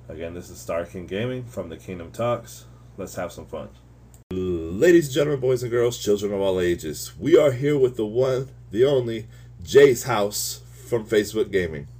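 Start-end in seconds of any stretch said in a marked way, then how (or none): 4.3-11.9 booming circus ringmaster intro. Acted. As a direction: announce it like a big top show. Host announcing guest ringmaster-style.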